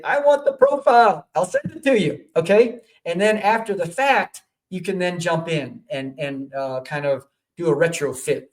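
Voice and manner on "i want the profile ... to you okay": high mock request. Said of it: "And just say".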